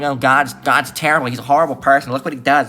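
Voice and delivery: mocking the critics. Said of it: "All these people are like".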